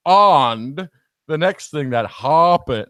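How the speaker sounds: loud, slow AH in "And" and "happened"; overdone vowels. Retold or imitated. Parent overdoing the reading after correction, exaggerated AH in "And", "happened". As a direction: overdo "And" and "happened" as AHND and HAHP-ened. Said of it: "I do overdo every".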